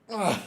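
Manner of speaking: grunting while lifting; strained grunt from the lift; effort grunt. Real, not acted. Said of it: "Sorry, I'm grunting".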